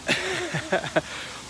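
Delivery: high-pitched soft laugh. Real, not acted. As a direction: let out a light, high laugh. Laughs before joking to the chat.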